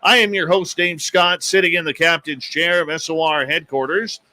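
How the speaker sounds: big opening intro, stretched on the show name; radio show announcer. Real, not acted. Host welcomes worldwide listeners to tonight's show, announcer style.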